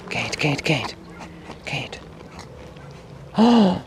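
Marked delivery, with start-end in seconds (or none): 3.4-3.8 high excited squeal; shrieking jackpot winner. Real, not acted. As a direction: shriek it like you just won. Excited at the cats.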